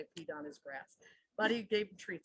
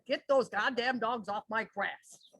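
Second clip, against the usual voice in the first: louder, slow mock yell of a gruff neighbor; retold yell; 6 dB louder, slower than usual. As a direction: play the grumpy old man shouting off his lawn. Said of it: "he yelled at me".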